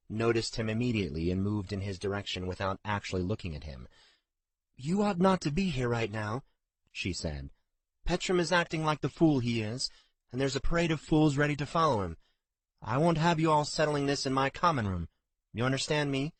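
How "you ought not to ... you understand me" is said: higher, louder scolding innkeeper; a hint of a bossy landlady laying down the law; stern innkeeper. A narrator's reading. Innkeeper scolds Jensen, stern and firm.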